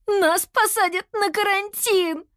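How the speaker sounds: high, slow cry of dismay; horrified wail. A narrator's reading. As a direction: wail it in horror, drawn out. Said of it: "завопила Кира в ужасе". (в ужасе, протяжно)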